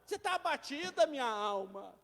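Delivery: loud, rising rebuke to his own soul; preacher rebuking his soul. Acted. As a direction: shout at your own soul to trust God. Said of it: "e aí ele fala".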